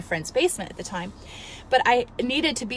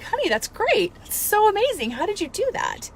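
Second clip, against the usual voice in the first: high, bright-pitched mom cheer; proud mother cheering her daughter's news; excited praise; 10 semitones higher than usual. Retold or imitated.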